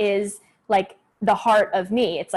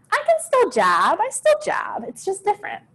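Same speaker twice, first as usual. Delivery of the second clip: rising higher and higher, emphatic; excited insistence; 11 semitones higher than usual. Real, not acted. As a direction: insist brightly, voice climbing. Insisting she still takes classes.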